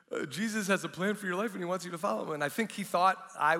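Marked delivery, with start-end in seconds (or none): 0.1-2.3 higher, hurried, hesitant repeat; sheepish. Retold or imitated. Stranger repeating himself to a man who seems mad, sheepish. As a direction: rattle it off sheepishly. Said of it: "he said it a little more sheepishly".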